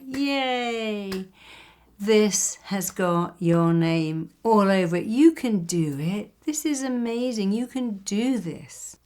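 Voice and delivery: high, excited "Yay" then slow, emphatic encouragement; cheerleader's cheer. Retold or imitated. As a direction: pump them up from the sidelines. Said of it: "a cheerleader that said things like".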